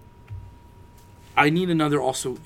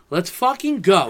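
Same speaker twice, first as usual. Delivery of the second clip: slow, drawn-out fired-up cheer; mock-hyped cheer; retold hype; 6 semitones higher, 5 dB louder, slower than usual. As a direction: relive the excitement. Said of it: "I was like".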